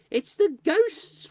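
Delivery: high, loud, very slow wail; children wailing to their mother about ghosts. Acted. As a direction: drag it out in misery. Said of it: "wailed the children".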